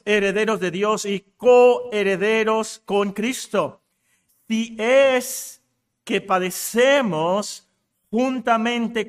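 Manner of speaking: firm, measured reading with long pauses; declaimed scripture. Real, not acted. Preacher reads Romans to the congregation, declaimed scripture. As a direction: proclaim the verse phrase by phrase, weightily.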